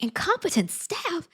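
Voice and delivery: high, slow disbelieving question; incredulous echo. Retold or imitated. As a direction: repeat it as if you can't believe it. Incredulous repeat of his words.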